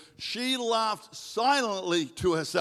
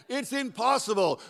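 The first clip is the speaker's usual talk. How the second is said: higher-pitched mock protest; doubting complaint; 4 semitones higher than usual. Struggling believer objects to God's promise, high protest.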